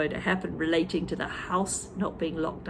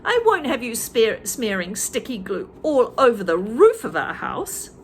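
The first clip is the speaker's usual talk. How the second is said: Missus Twit scolding; 3 semitones higher, 5 dB louder than usual. Acted.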